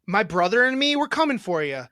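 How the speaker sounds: light taunting hype promo; mock challenge, barely changed voice; imitating Tara. Brother lightly voicing his sister's taunt to rival siblings. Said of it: "I'll try to do it as you".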